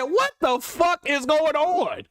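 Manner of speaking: slow, stunned what-the-fuck; slow disbelieving outburst; retold disbelief. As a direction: drag it out in disbelief. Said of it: "I said".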